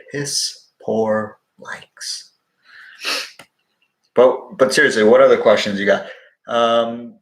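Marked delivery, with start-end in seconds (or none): 0.1-2.3 very slow, stretched out; slow drawn-out repeat. Real, not acted. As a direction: drag every word out.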